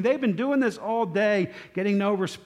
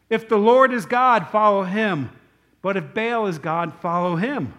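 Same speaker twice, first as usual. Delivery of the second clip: raised, ringing preacher's challenge; forceful challenge; 2 semitones higher, 7 dB louder than usual. Retold or imitated. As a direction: call it out boldly to a crowd. Elijah's challenge to the people.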